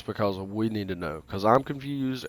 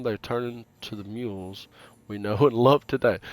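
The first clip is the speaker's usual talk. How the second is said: louder, with a laugh on love; mock fondness for the mules; sarcastic; 4 dB louder than usual. Real, not acted. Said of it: "Little sarcasm there".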